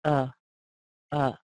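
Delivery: short relaxed uh sound; schwa uh. Shown as a demonstration. Teacher modelling the reduced schwa. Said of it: "what we call a schwa".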